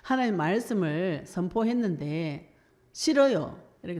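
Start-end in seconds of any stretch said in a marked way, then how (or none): 2.9-3.6 put-on high, loud childish refusal; petulant high no; Jonah refusing. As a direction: whine no like a stubborn prophet. Jonah refusing God, voiced.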